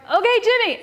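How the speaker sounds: high, singsong go-signal; gleeful cue. Retold or imitated. Sisters cueing their little brother to jump out, gleeful high call.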